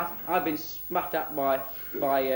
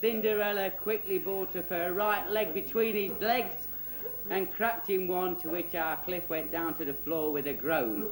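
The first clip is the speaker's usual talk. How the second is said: put-on children's storyteller; 5 semitones higher than usual. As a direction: deliver a mock-dramatic fairy-tale ending.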